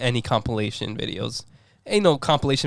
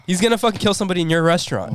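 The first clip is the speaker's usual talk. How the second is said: fast, pressing warning; urgent; 5 semitones higher, faster than usual. Shown as a demonstration. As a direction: hurry it out with urgency. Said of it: "give it some emotion".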